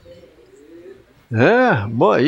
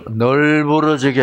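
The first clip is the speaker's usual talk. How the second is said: Chungcheong dialect with a long drawn first syllable; 2 semitones lower than usual. Shown as a demonstration. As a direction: stretch the opening like a Chungcheong local. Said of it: "충청도 말은".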